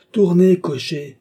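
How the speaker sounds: loud, high, drawn-out command; shouted order. A narrator's reading. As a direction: call out to the coachman. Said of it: "cria le baron".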